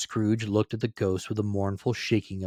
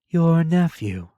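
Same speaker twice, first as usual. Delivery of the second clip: slow, weighty spirit voice; solemn ghost; 8 semitones higher, 7 dB louder, slower than usual. Acted. Ghost reminds Scrooge of his sister, slow solemn voice. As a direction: lay each word down gravely.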